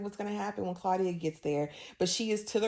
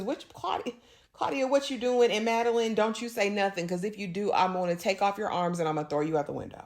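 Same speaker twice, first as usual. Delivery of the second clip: pissed off; 3 semitones higher, faster than usual. Retold or imitated. Louis confronting Claudia and Madeline, mock pissed off. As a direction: imitate an irate man, racing through the final threat. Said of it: "he's pissed".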